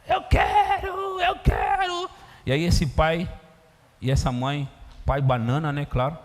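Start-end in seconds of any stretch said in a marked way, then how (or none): 0.1-2.1 very high, slow shouted whine; spoiled child screaming in a tantrum. Retold or imitated. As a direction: scream it like a toddler on the floor.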